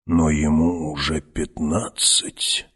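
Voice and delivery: slow creaking crone voice; creaky old woman. Acted. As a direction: keep the old hag's scrape. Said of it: "проскрипела старуха". (скрипучий голос старухи)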